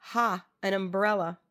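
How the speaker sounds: lightly mocking echo of the advice; understated scorn for the suggestion; mild scoff. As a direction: open on a dismissive "ha". Poet scoffs at girl's advice.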